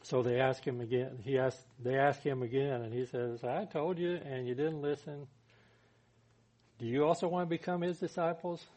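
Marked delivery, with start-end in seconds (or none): 3.4-8.7 higher-pitched, irritated retort; acted-out irritation at the questioners; a little irritated. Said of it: "this guy's getting a little irritated".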